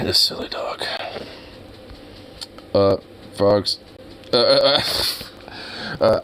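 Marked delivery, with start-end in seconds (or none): 0.0-0.8 soft whisper to the dog; hushed aside to the pet. Real, not acted. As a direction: breathe it to the dog.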